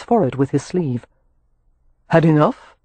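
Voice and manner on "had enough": mild, pleasant character voice; politely casual enquiry; pleasant question. A narrator's reading. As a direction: ask it pleasantly, as if unruffled. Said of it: "he asked pleasantly".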